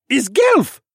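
very high, loud squeaky creature voice; pigeon-speak voice. Acted. Pigeon-like steed calls to Alex through their mind, high and squeaky. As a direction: chirp it out like a little pigeon creature. Prosper's voice.

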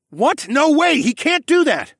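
high, loud disbelief; alarmed protest. A narrator's reading. Alex learning of Tovish's plan, protesting loudly. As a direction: object loudly, refusing to accept it.

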